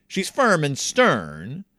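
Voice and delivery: slow, stern teacher impression. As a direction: drag it out like a strict teacher. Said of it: "she talks like this".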